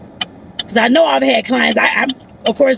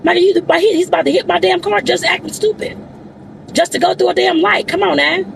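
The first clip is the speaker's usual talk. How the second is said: higher-pitched griping at reckless drivers; frustrated ranting; 5 semitones higher than usual. Real, not acted. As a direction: vent your annoyance while driving. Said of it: "I ain't mean to do all that cursing".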